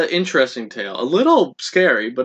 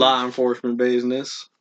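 Andy's odd delivery; 3 semitones lower than usual. Retold or imitated. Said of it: "He says it in a weird way".

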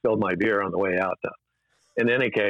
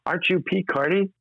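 fawning director; 9 semitones higher than usual. Retold or imitated. Director flattering the dad.

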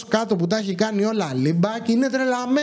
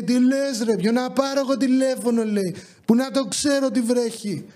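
mock indignant driver; 4 semitones higher than usual. Driver arguing back, mocked.

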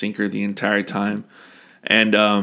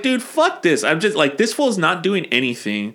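indignant Faramir; 6 semitones higher than usual. Pretend. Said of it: "if I was Faramir, I'd be like".

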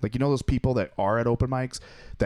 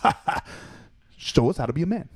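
higher, laughing mock challenge; laughing taunt; 5 semitones higher than usual. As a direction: cackle through the dare, teasing. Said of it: "just start laughing and just be like".

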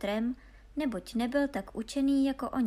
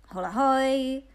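loud, high halloo; drawn-out storybook hail; calling after them; 4 semitones higher, 8 dB louder, slower than usual. A narrator's reading. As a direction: holler to riders up ahead. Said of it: "volal za nimi hloupý Honza".

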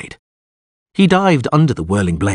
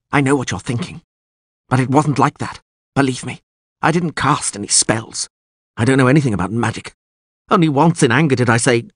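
higher-pitched, anxious excuses; captive lord pleading; 5 semitones higher than usual. A narrator's reading. Bound lord denies casting spells to the witcher, pleading. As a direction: plead to be believed.

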